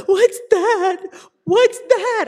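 high, sobbing panic; frightened girl crying out at a shape in the water; terrified friend sobbing from the boat. Retold or imitated. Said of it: "like, sobbing".

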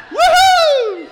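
put-on high, very loud drunken whoop; whooping woman. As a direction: whoop it out like a party girl. Woman cheering from window.

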